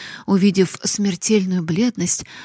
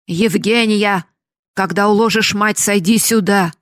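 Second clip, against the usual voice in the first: father calling his daughter from the stairs; 2 semitones higher, 6 dB louder than usual. Acted. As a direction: call down from the staircase. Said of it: "закричал Евгении".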